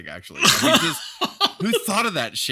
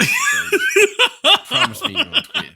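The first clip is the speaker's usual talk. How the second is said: higher-pitched Southern plea; Southern accent; 7 dB louder than usual. Acted. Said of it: "I'm giving everybody a Southern accent".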